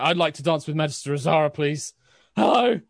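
lightly voiced eager request, quick; Aaron, eager. Aaron openly asks to dance with Magister Azara, quick eager voice. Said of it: "he does say that out loud, yeah. He's just like".

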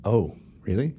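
soft whispered question; whispering. Real, not acted. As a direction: whisper back, surprised. Replying in the same whisper.

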